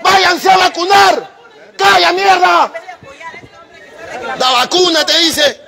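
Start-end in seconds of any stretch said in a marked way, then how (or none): 0.0-2.7 angry shout. Real, not acted. Angry customer yelling at bank staff, furious slow shout. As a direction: spit it out slowly in real fury.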